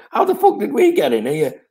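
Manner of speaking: high, laughing through the words; amused retold disbelief. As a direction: crack up while asking it. Retold footballer amazed, laughing.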